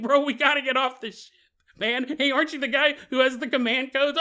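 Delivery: panicked crewman. Retold or imitated. Crewman urging waver to flee.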